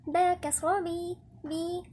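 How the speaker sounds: slow با كسرة بي with a clear "ii"; drawn-out, true "i" on بي; full kasra drill. Shown as a demonstration. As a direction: spell out با كسرة بي syllable by syllable. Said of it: "لازم نحقق الكسر".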